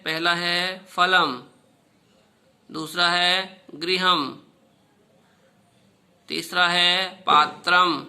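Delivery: each Sanskrit word spoken out slowly and clearly for pupils; teacher reciting the list slowly for children to repeat; slow careful recitation. Shown as a demonstration. Teacher reads word list to pupils, slow and deliberate. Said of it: "उच्चारण करते हैं".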